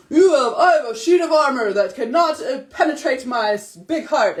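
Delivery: laughing through a grand line; laughing mock pep line. Mom offering her son a grand line, laughing. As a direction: overdo the armour speech, cracking up. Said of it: "all these different things he could say".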